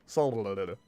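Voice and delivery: Soleil drawn out as sah-luh-lo-luh in a put-on voice; mock old-country accent. Shown as a demonstration. Gamer joking about his old-country Soleil, hammed-up. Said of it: "That's how we say it from the old country".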